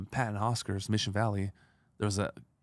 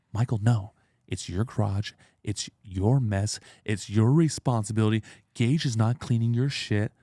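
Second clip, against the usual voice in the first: mock scolding wife, louder; imitating angry wife; 4 dB louder than usual. Wife scolding husband for hiring help, mock angry. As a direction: scold him like his annoyed wife. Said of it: "She was pissed".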